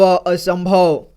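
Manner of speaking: असंभव drawn out slowly, syllable by syllable. Shown as a demonstration. Teacher showing children how to join sounds, slow syllable-by-syllable reading. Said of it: "एक एक जोड़ करके इसी तरह से पढ़ना है".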